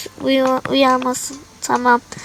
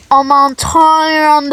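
slow, drawn-out gasp of disbelief; mock shock; much slower than usual. Clerk reacting to the rude customer, shocked. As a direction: act scandalised.

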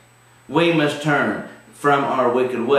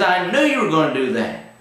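complaining Jonah; 6 semitones higher than usual. Retold or imitated. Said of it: "He says".

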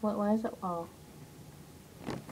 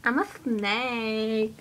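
snake whisper; 3 dB quieter, much slower than usual. Pretend. Pretending to be a snake.

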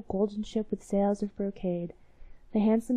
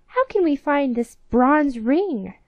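worried queen; 5 semitones higher, 7 dB louder, slower than usual. Acted. Queen of mice in dismay.

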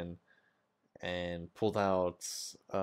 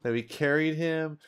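higher and louder, outraged at the loss; indignant rant; 7 semitones higher, 6 dB louder than usual. Acted. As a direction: vent the betrayal, voice rising. Player complains companion was killed.

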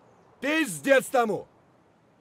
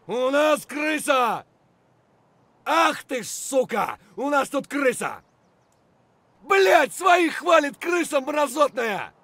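angry yell. Acted. Soldier shouting at a traitor in the squad, furious. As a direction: rage at the betrayal.

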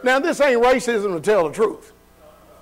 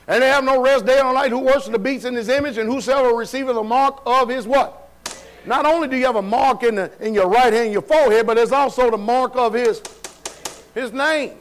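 forceful preaching; 3 semitones higher than usual. Real, not acted. Preaches on scripture.

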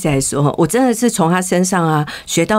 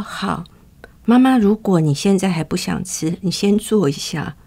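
calm soothing. Retold or imitated. Daughter calming her angry mother.

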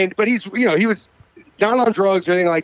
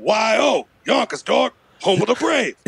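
an imitated rapper's voice; 3 semitones higher than usual. Acted. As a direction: hype intro in an imitated rapper bark. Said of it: "the only impression I can fucking do"

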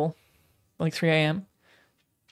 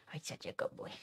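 soft whisper to the dog; 17 dB quieter than usual. Real, not acted. Praising her dog softly, whispered.

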